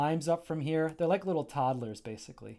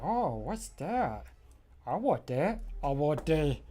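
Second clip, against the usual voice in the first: curious pillow; slower than usual. Acted. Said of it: "That's how I say, he would say".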